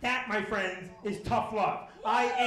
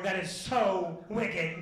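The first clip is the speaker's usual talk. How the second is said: stoned awe; 3 semitones lower, much slower than usual. Retold or imitated. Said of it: "younger cop is now looking at the fan".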